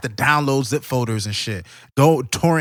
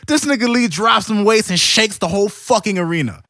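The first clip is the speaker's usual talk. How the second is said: higher and louder, building excitement; hyped storytelling; 7 semitones higher, 5 dB louder than usual. Real, not acted. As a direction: tell it like the arena just shook. Hyped retelling of the fight.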